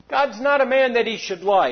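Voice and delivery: lifted high, preaching the point home; preaching emphasis. Real, not acted. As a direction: preach it out, stress on not. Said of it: "You know what that means?".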